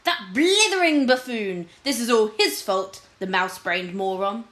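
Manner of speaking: a scheming lord cursing the king as he wades; furious lord. Acted. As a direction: spit out the insults.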